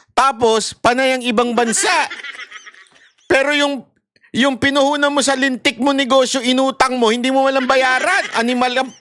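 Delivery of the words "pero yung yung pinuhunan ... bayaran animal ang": heated rant. Real, not acted. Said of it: "nadadala ako dito".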